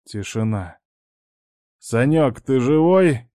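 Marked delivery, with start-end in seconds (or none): 1.8-3.3 anxious call. Acted. After crash, calling friend.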